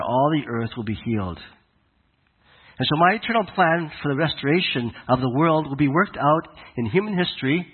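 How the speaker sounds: voice of God speaking. Acted. Preacher voicing God commissioning Abraham, a hint of majestic proclamation. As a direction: proclaim it as a grand calling, mostly in your own voice. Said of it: "essentially told Abraham".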